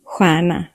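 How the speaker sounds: "Stjärna" starting with a soft throaty whoosh; Swedish stj sound. Shown as a demonstration. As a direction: open "Stjärna" with a windy rasp. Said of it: "from deeper in your throat, like a soft, windy whoosh".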